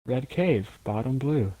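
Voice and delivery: calm, slow, even callouts; slow, level game callouts. Shown as a demonstration. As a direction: drag each callout out evenly. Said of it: "I would have to be like".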